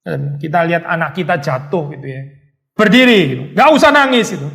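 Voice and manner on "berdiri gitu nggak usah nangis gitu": stern parent. Retold or imitated. Parent scolding a fallen child.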